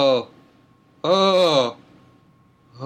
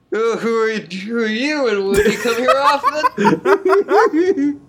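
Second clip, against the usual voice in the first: high, giggling mock flirting; laughing pickup line; 4 semitones higher than usual. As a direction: break up laughing on the come-on.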